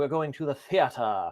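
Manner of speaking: put-on British accent. Teaching a spelling difference, demonstrating how it sounds in a British accent. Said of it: "as we would say with a British accent".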